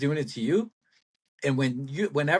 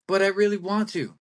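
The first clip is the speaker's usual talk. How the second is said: put-on lightly whined child's protest, pitched up a little; whiny kid; 3 semitones higher than usual. Kid arguing back at Dad, mildly whiny. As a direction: plead like a nagging kid, lightly. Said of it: "You sound like a whiny little brat".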